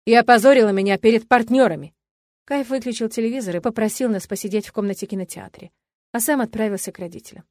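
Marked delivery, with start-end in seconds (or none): 0.0-1.9 angry yell. A narrator's reading. Father yelling at wife.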